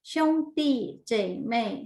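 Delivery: "ช่งตี้เจ๋ยเม่ย" in even, separate syllables; pronunciation drill. Shown as a demonstration. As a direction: model "ช่งตี้เจ๋ยเม่ย" carefully for learners. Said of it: "ทวนการออกเสียงอีกครั้งหนึ่ง".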